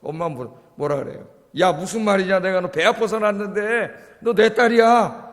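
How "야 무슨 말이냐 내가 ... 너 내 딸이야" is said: mother's reply. Retold or imitated. Mother reassuring child.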